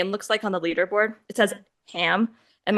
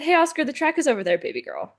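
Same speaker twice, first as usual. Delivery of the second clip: mock calling out; 7 semitones higher than usual. Friend redirecting Oscar who went off track, mock calling out. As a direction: call out lightly, then drop way down.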